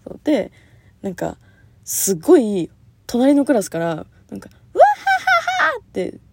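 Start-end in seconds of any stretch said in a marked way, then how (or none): 4.7-5.8 mock loud laughter; imitated loud laugh. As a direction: burst out in a big mock cackle. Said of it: "笑い声が聞こえんの".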